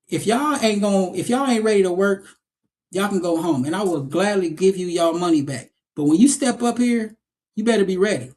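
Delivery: retold no-nonsense ultimatum, pitch lifting toward the end; imitated stern warning. Acting teacher warns unready students, imitated stern warning. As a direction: lay down the law as a tough teacher.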